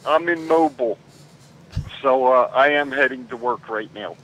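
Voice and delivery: caller on speakerphone while driving; car speakerphone. Real, not acted. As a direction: talk hands-free from the car. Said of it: "are you in a Tesla".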